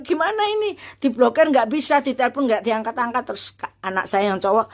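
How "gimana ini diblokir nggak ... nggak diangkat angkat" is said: much higher, frantic fretting; a rising wail of panic over the blocked account; panicked mother. Retold or imitated. Mother can't block her bank account and panics, high frantic voice.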